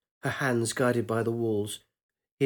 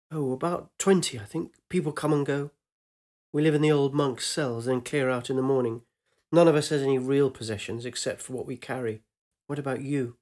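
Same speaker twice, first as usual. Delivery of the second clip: chatty and open, slightly raised; lightly voiced young woman; 2 semitones higher than usual. Young woman telling her lover about the monastery, light and eager.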